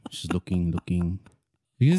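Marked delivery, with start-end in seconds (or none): none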